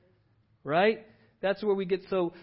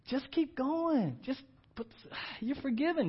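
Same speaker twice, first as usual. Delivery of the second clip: slow, gentle repeat; 10 semitones higher, slower than usual. Shown as a demonstration. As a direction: stretch each word out gently. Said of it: "And just keep going".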